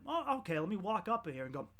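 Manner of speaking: mocking gullible crowd. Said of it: "and people went".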